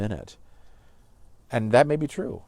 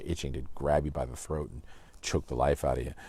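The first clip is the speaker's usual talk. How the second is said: ordinary talk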